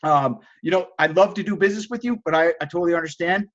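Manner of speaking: mild, understanding apology; not mad. Retold or imitated. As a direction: let it go without arguing. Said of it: "I don't get mad. I don't argue".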